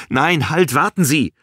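high, loud interruption; desperate shout. A narrator's reading. Balin stops superior hanging up, desperate shout. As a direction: cut in with an alarmed cry. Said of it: "schrie Balin".

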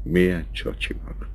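soft, breathless whisper; teasing whisper. Acted. Countess whispering teasingly to Franci. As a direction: whisper it fondly, close to him.

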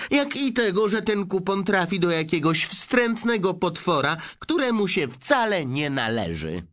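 put-on high, sour old-woman voice; grandma predicting the worst with disdain; gloomy old grandma.

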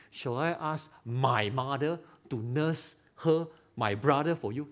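plainly stated, slow, unpolished asking; a mildly naive, unguarded ask; blunt request. Shown as a demonstration. Preacher demos the clumsy wrong way to ask, blunt and plain. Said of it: "That's stupid".

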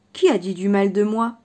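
slight anger. Acted. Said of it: "avec un petit frisson de colère".

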